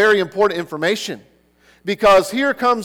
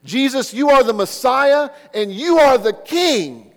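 raised, higher proclaiming call to Jesus; retold yelling out; 5 semitones higher, 3 dB louder than usual. Blind man calling out to Jesus, loud mock cry. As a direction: call out to him as the blind beggar crying for help. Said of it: "this man yells out repeatedly".

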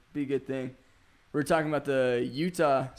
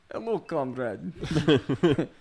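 mock Russian accent. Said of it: "Russian accent".

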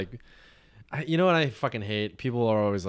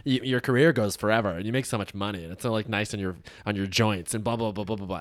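snooty. Retold or imitated. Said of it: "They do that snooty".

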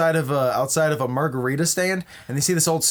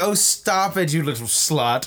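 playful mock scolding, starting high; ditzy and catty; 3 semitones higher than usual. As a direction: tease a friend like a catty airhead. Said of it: "They're very ditzy and catty".

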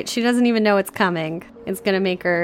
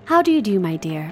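put-on kindly old lady. Old lady welcoming Jane, lightly voiced kindly greeting.

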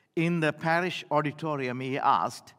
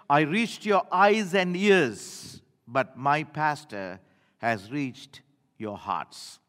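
trembling voice; 2 semitones lower, slower than usual. Retold or imitated. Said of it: "his voice trembling as he said".

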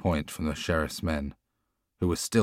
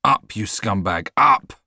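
a harsh shout, much louder and higher; fake-angry shout to fool the guards; 4 semitones higher, 9 dB louder than usual. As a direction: bellow it straight into his father's face. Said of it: "then shouted into his father's face".

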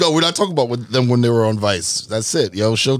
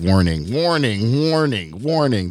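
sound effect voice; slower than usual. Retold or imitated. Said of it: "best sound effects".

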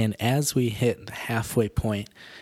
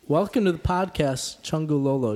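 high bright singsong greeting; singsong puppet show host; 6 semitones higher, 5 dB louder than usual. Acted. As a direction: sing it out like a kids' show host. Host greets baby on mic.

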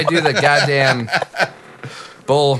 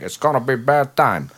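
the same bit brought lower as Scarface. Shown as a demonstration. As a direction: lower mobster voice, bad time. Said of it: "You can bring it lower, and it can be Scarface".

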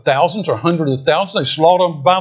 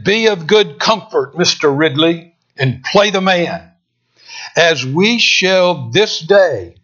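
raised, ringing call across the flames; rallying shout; 3 semitones higher, 3 dB louder than usual. Retold or imitated. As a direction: call out to Ridley to stand firm. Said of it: "He shouted over to Ridley".

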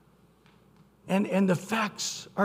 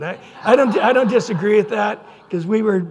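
laughing; 3 semitones higher, 9 dB louder than usual. Real, not acted. Laughs admitting being annoying.

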